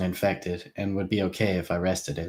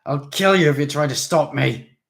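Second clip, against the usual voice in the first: put-on 1 drunken threat; 7 semitones higher, 8 dB louder than usual. A narrator's reading. Drunk Vansha threatening Krebsley.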